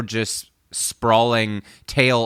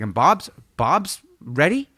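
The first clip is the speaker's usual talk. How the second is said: higher, drawn-out eager announcement; pumped producer; 5 semitones higher, slower than usual. Retold or imitated. Retelling the producer saying the singer is ready, pumped. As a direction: imitate a hyped record man, stretching the words. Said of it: "He's so pumped".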